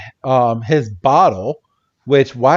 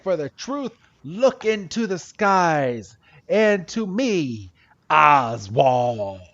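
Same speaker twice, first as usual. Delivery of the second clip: conspiracy weirdo; 3 semitones higher, 6 dB quieter, much slower than usual. Retold or imitated. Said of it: "he's got a thick German accent".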